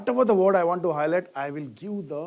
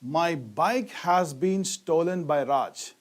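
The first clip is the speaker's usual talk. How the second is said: slow example read; slower than usual. Shown as a demonstration. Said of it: "Look at this sentence".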